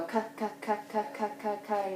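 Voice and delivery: k, k, k said as crisp clicks; k sound demo. Shown as a demonstration. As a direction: model the k sound. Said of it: "so you're gonna go".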